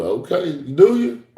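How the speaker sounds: high, teasing question; mock God reply. God teasing the preacher about wanting tears, high and amused. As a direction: playfully test the request. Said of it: "God answering his request for tears".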